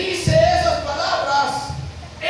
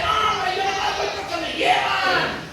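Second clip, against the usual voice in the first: higher, shouted brush-off; 5 semitones higher than usual. Acted. Peter denies faith.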